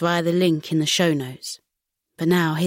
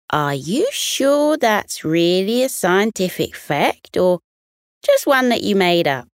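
teasing doubt; 3 semitones higher, 3 dB louder than usual. Acted. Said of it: "Didge the dingo chuckled".

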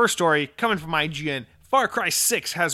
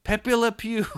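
higher hammed-up French accent; punchline in a silly French voice; bad French accent; 7 semitones higher, slower than usual. Podcaster mocking a Ubisoft exec, bad French accent. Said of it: "that's a really bad French accent".

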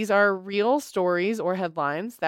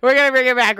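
excited; 4 semitones higher, 6 dB louder, faster than usual. Acted. Hyping the podcast comeback.

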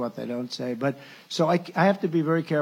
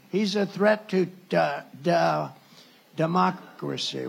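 mock stumbling; slower than usual. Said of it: "Couldn't read the word".

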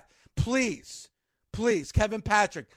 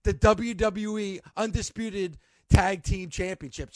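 announcer voice; 2 semitones lower than usual. Retold or imitated. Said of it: "continuously say during the match".

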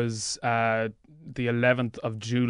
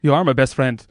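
lightly raised comic character voice; Jim character voice; 6 semitones higher, 3 dB louder than usual. Acted. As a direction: play the paranoid Jim, a bit higher. Jim character enters studio.

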